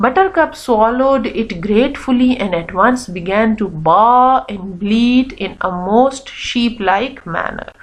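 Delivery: slow, drawn-out storybook narration; story read-aloud. Acted. Teacher reading Buttercup's story to children, storytelling. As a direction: read slowly, letting the last word drop away.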